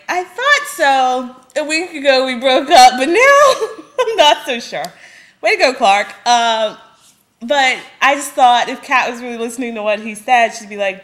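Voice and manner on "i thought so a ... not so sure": high mock-sincere quote breaking into a laugh. Mocking Clark's breakup line to the viewers, laughing. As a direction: parody his line, giggling through it.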